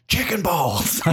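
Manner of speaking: boss's mild curse, high and laughing; lightly imitating the boss who never swore, laughing; mock boss curse. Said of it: "he never cussed".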